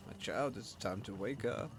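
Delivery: sultry voice. Retold or imitated. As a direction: say it like a seductive whisper. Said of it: "sultry voice".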